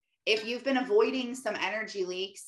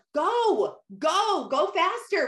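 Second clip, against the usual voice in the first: high, louder mock yell; imitated yell; 10 semitones higher, 5 dB louder, much slower than usual. Mom yelling at her daughter from the car, imitated yell. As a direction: holler it like a rushed mom. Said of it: "was, like, yelling".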